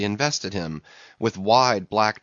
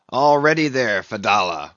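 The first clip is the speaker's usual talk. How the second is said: loud, raised call; crying out; 5 dB louder than usual. A narrator's reading. Ahab calls to the old man at the boat crew's head, crying out. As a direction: call out strongly to the man ahead. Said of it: "Ahab cried out".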